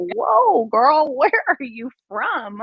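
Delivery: high startled whoa, then a laughing question; a retold man caught off guard, voice jumping up; surprised Jamaican man. Retold Jamaican man, stunned she speaks patois, high startled whoa.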